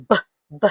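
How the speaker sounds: "B, B" as two short buh sounds. Shown as a demonstration. Teacher showing how Belinda starts, B sound. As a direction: sound out "B" alone, not the letter name. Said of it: "Belinda starts with the".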